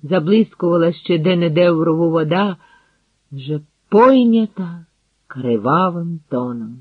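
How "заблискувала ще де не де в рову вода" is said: plain reading voice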